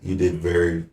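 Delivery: dry, mock-grateful thanks; sarcastic. Real, not acted. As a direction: thank them without meaning it. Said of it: "a hint of, uh, sarcasm?".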